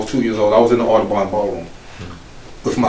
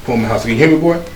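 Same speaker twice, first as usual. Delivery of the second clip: angry mother; 4 semitones higher than usual. Retold or imitated. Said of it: "I said".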